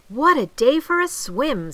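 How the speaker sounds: high, loud, eager cry; delighted exclamation. A narrator's reading. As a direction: exclaim it with cheerful enthusiasm. Frog delights in the day.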